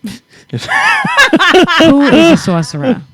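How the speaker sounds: high question bursting through laughter; cracking up. Real, not acted. Reacting to the sorcerer claim, laughing hard. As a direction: laugh helplessly while asking.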